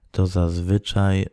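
normal talking voice

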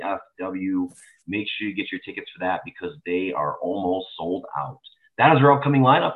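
lightly put-on radio personality read; announcer voice. Host reading upcoming wrestling shows to listeners, mild announcer voice. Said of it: "That was nice announcer voice right there".

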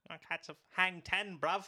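high mock Aussie surfer; playful put-on Australian accent. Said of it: "Let's do accents of the world".

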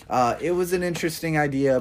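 words stretched by a yawn. Real, not acted. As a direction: yawn through the line. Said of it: "Sorry for all the yawning".

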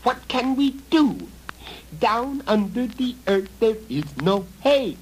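high, loud goblin wail; worried goblin cry; fretting goblin. Acted. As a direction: wring your hands in goblin panic. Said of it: "old goblin struck his hands".

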